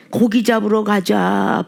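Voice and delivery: slow, spiritless mock sigh of a line; deflated. Lightly voiced disheartened disciples going fishing, deflated. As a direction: say it like all the fight has drained out. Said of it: "풀이 쭉 빠졌고".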